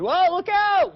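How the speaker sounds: loud, high-pitched warning shout; imitated yell. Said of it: "a gentleman yelling".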